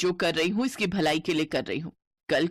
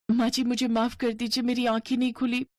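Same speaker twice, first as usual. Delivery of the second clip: put-on higher, timid young bride; 5 semitones higher than usual. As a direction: apologize shyly to your mother-in-law. Bride apologizes to mother-in-law.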